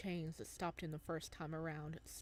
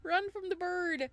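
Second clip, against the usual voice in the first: excited shout; 11 semitones higher, 8 dB louder than usual. Real, not acted. Excited reaction to game scene.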